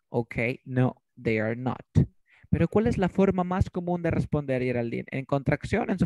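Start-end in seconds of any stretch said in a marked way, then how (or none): 0.7-1.8 slow "No", then "they are not" in separate words; emphatic full form. Shown as a demonstration. Teacher repeats the emphatic example, slow and deliberate. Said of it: "Imagínate que yo quiera enfatizar".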